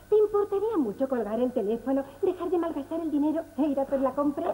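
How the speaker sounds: quick scolding. Acted. Mother scolds daughter on phone.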